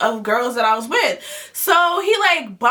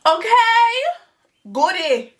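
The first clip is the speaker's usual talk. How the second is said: high squealing okay through laughter; tipsy shriek of laughter; laughing squeal; 9 semitones higher than usual. Real, not acted. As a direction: squeal it out, cracking up. Laughing cry after Goody.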